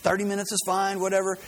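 acting out an irritated phone call; frustrated. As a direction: brush off the caller, mildly exasperated. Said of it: "he's frustrated and he's kinda angry".

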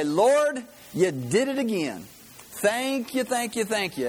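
high, fervent thank-you prayer; joyful grandma praise. Retold or imitated. Grandma greeting the sunrise, high joyful praise.

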